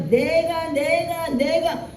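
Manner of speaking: high, insistent boasting "내가"; 흥분한 자기 과시; indignant me me me. Retold or imitated. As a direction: puff yourself up with each 내가. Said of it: "막 감정이입이 엄청나게 된 겁니다".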